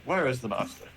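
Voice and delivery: lightly voiced questioning robot; a hint of a formal machine; robot character. Robot asks the party for its master, lightly voiced robot. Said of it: "He looks to you guys like".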